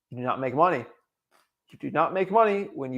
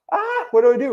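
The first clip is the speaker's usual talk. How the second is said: higher, louder cry of helpless indecision; mock exasperation; 11 semitones higher, 6 dB louder than usual. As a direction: throw up your hands, can't choose. Voicing own indecision about markets.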